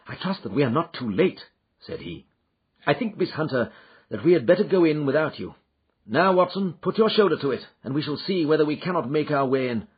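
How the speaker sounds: a hint of urgency as he orders Watson; understated worried Holmes; Holmes, tense. Holmes voiced at the door.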